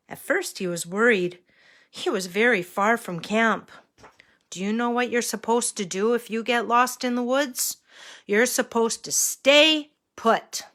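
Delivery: put-on bright storybook reading for little kids; reading to a toddler. A narrator's reading. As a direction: read it like to a small child. Reads story to children.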